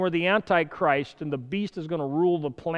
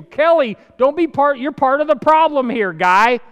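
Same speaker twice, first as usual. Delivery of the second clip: stern rebuke; 7 semitones higher, 8 dB louder than usual. Pretend. God scolding the preacher in sermon.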